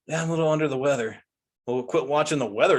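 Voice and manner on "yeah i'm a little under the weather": mock quote. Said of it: "the person that says".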